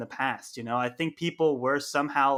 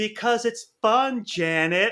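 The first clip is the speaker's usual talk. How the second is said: full-blast, high, drawn-out screaming yell; 8 semitones higher, 5 dB louder than usual. Retelling a director screaming over an interviewer: imitating Quentin Tarantino screaming. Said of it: "he just screams over".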